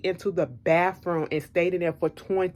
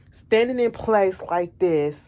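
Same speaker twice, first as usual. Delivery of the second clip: slow, dazed showing of the stumble; slowed demo of slurring; slower than usual. Shown as a demonstration. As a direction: drag the words out slowly, like he's fading.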